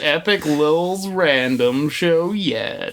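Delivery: mock cartoon trailer voice; promo announcer.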